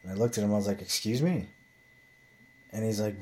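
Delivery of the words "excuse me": mock-offended, pitch lifting at the end; affronted disbelief. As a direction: retell it as a taken-aback challenge. Retold confrontation, taking offence.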